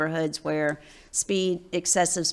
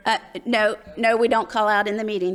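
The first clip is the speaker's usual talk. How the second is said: firm; 3 semitones higher, 5 dB louder than usual. Real, not acted. Chair stops an audience interruption.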